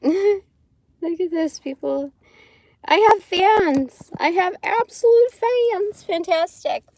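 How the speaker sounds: slow, loud mock-proud gloating; sarcastic. Real, not acted. Mocking trolls in her chat, sarcastic.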